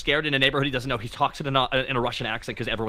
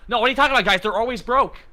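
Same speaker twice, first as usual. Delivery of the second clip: sarcastic Southern preacher voice; Southern accent; 12 semitones higher, 3 dB louder than usual. Acted. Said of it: "but you did a Southern accent".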